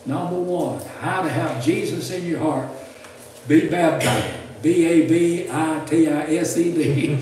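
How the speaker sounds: emphatic, measured read-out; deliberate pulpit reading of a list; reading a list aloud. Real, not acted. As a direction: announce each point with punch. Reads granddaughter's written list aloud.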